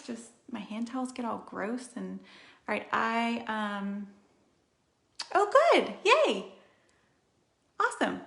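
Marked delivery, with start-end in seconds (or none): 5.3-8.2 high, loud delighted squeal; light up over good news; excited cheer. Real, not acted. Reading a viewer comment, a loud excited squeal.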